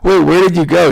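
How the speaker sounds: high-pitched question through a smile; retold amused, lifted "wait" question; amused disbelief. Husband questions wife about her day off, amused disbelief. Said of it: "I just started smiling and go".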